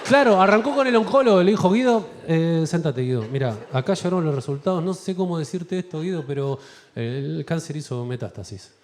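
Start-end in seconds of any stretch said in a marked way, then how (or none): 1.7-8.7 doctor breaking bad news to Guido; somber doctor.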